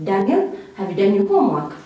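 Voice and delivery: "Daniel" lifted, then a fast "have you done your homework"; rising question. Shown as a demonstration. Parent asks Daniel about homework, rising intonation. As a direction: lift "Daniel" and rattle off the question. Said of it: "So that is rising".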